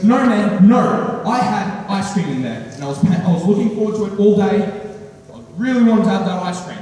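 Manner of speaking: mildly hammed-up grievance over a stolen treat; retold aggressive roommate. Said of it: "He gets aggressive".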